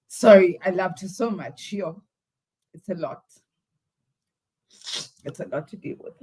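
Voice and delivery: grieving a colleague and trying to hold together; crying. Real, not acted. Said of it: "It wasn't my intention to cry".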